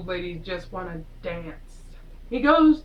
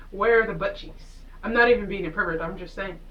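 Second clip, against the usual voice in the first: mock indignation. Real, not acted. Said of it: "I am personally insulted".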